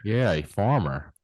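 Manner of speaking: Mississippi farmer, slow and easy; Mississippi accent. Real, not acted. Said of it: "That's my Mississippi accent there".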